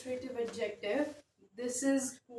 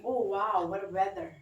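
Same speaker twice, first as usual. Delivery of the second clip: exclamatory tone; 2 semitones lower, 4 dB louder than usual. Shown as a demonstration. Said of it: "using an exclamatory tone".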